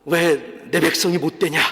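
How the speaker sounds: low, restrained scolding; a reproachful question, voiced low; mock scolding. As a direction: imitate a stern reprimand, kept low. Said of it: "이렇게 꾸짖으시는 게 아니에요".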